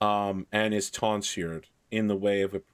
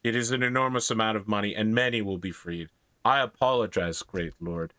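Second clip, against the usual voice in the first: put-on Irish-accented grateful priest. Irish priest thanks and apologises to a great lord, Irish accent. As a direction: accept the gift in an Irish accent. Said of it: "in a very Irish accent".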